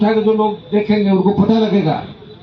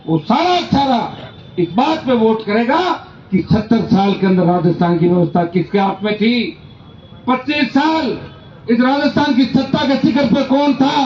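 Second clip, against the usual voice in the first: raised, emphatic stump-speech delivery; rally oratory. Real, not acted. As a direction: address the crowd in measured, forceful phrases. (जोशीला चुनावी भाषण)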